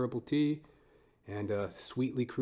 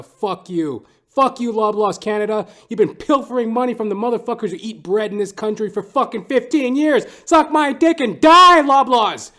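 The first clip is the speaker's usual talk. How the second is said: building to a much louder, higher scream; furious rant; 10 semitones higher, 14 dB louder than usual. Real, not acted. Ranting at Loblaws Canada, building to an angry scream. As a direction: rage at them until the voice cracks. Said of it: "I'm sorry. I'll get to Loblaws".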